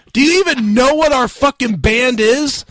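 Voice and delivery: mock outraged yell. Manager repeating the contest name in outrage, mock yell. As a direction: spit the slogan back like an angry manager. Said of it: "he was yelling and cussing at me".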